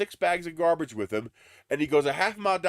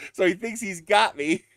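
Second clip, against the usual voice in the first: louder, laughing through it; 5 semitones higher, 4 dB louder than usual. Real, not acted. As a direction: chuckle as you say it. Laughing line.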